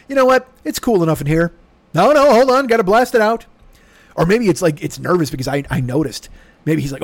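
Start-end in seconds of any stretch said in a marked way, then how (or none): 0.1-3.5 air conditioner voice. Pretend.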